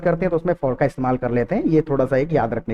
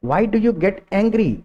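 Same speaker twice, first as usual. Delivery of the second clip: very slow, word by word; slow model sentence; 4 semitones higher, much slower than usual. Shown as a demonstration. Teacher modelling a question for students, very slow. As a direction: stretch each word out for learners. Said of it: "क्यों गुस्सा करते हो".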